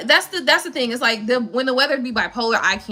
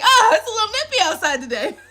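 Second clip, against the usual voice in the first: mock shivering Floridian; 8 semitones higher, 3 dB louder than usual. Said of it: "I'm like".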